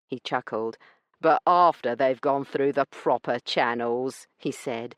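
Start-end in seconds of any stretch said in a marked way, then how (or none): 1.2-4.3 rough man's sneering mimic of a lady's proper speech; mocking her accent. Branson mocking Io's accent, sneering mimicry. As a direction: parrot her posh words back with a sneer. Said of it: "doing a fair job of mocking her accent".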